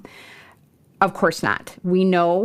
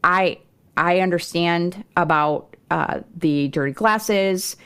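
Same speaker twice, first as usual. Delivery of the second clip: respectfully. Retold or imitated. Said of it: "I would respectfully share".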